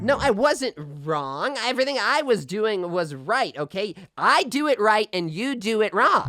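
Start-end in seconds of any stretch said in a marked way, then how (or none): 1.6-6.3 indignant insist. Acted. Host arguing with caller, indignantly insisting. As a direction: hammer it home that you're right. Bickering over the story.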